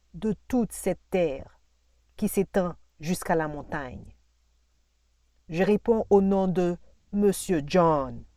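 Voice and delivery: lightly voiced proud landowner, emphatic; a touch of self-important grandeur; boastful planter. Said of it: "Il me disait".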